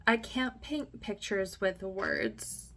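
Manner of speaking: slow, weighty read of the scammer's email; dramatic reading. Pretend. Reading the scammer's email to viewers, slow and dramatic. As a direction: drag it out like a grand pronouncement. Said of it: "We gotta be dramatic".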